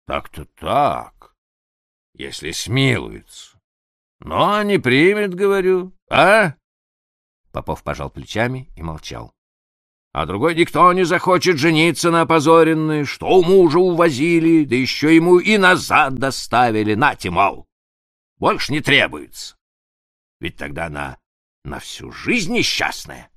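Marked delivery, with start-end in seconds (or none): 4.2-6.5 pressing prince. Acted. 10.1-19.6 put-on higher, louder insistent old prince; indignant nobleman arguing his case; heated prince. Prince argues, raised voice.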